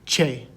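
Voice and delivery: che, said CHAY with a crisp ch; Spanish letter name. Shown as a demonstration. Teacher naming the Spanish letter for students, clear demonstration. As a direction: say che like "chay", slowly falling. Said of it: "we call it".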